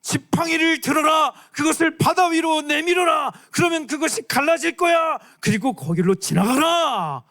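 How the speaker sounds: high, loud booming command; God ordering Moses, booming and loud. Acted. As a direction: proclaim it from on high. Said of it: "하나님 말씀하시는 거야".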